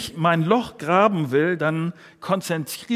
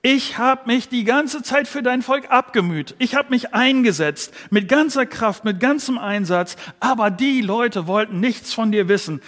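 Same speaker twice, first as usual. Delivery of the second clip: exasperated Elijah; 4 semitones higher, 3 dB louder than usual. Acted. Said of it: "Das, was Elia hier sagt, ist".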